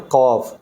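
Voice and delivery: قاف with a heavy q from the throat; throaty qaf. Shown as a demonstration. Teacher shows students the throaty قاف. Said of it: "ذرا تھوڑا سا موٹا یعنی یہاں گلے سے پڑھتے ہیں".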